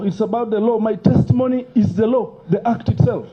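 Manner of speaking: rising, heated insistence; emotional. Real, not acted. Witness to committee chair, heated emotional insistence. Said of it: "don't be emotional".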